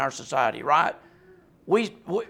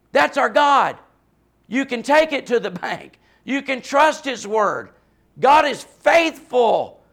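passionate, loud, raised, near-yelling preaching; 5 semitones higher, 5 dB louder than usual. A preacher speaking to listeners, yelling passionately. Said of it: "I sound like I'm yelling and mad".

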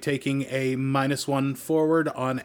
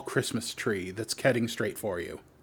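normal talking voice

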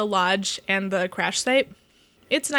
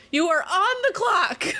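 high, raised yell, called out; 8 semitones higher than usual. Voicing Bree from the driver's seat at the others: Bree yelling. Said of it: "This is Bree yelling from the driver's seat".

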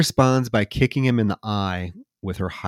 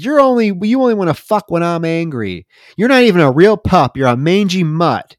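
mock angry, pissed-off delivery, much higher pitch; 10 semitones higher, 8 dB louder than usual. Retelling what a man yelled at his pup in a bar, acting out a pissed-off rant. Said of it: "he is pissed".

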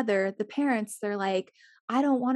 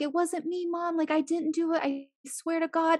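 play-acted, high, tearful, pleading crying child voice; 7 semitones higher than usual. Retelling a prank on a kid by his parents, imitating a crying kid. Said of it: "he's like crying".

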